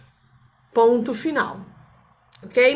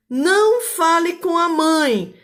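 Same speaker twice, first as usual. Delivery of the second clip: stern order; 4 semitones higher, slower than usual. Shown as a demonstration. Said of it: "Aqui é uma frase imperativa negativa".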